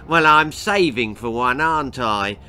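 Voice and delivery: a hint of a smug grinning dad. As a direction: say it with a grin, smug. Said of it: "grinned Pa".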